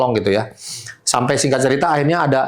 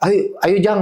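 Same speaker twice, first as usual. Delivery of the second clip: retold shout; 5 semitones higher, slower than usual. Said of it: "Dia teriak".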